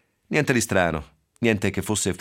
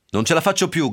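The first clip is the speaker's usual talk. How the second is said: higher, louder desperate cry; a desperate, breaking-point outcry; 9 semitones higher, 4 dB louder than usual. Acted. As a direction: cry out at the end of her rope. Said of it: "gridò".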